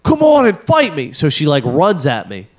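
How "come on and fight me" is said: high mock challenge, pitched way up; squeaky taunt of the angry wife; wife's goading, pitched high; mimicking wife's challenge. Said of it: "And she's just like".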